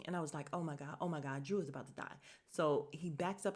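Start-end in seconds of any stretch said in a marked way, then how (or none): 0.5-2.2 low, hushed nervous aside. Retold or imitated. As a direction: re-enact anxious dread under your voice. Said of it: "I was so nervous".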